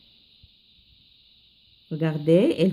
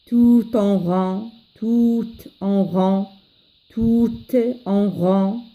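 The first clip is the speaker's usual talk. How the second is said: verse modelled line by line; poem recitation for learners. Acted. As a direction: teach a poem by careful recitation. Teacher drills first stanza.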